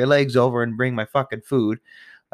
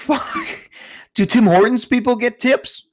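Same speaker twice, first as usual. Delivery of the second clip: high-pitched incredulous outburst; loud, high, indignant rhetorical rant; exasperated; 13 semitones higher, 5 dB louder than usual. Real, not acted. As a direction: squeal the question in disbelief.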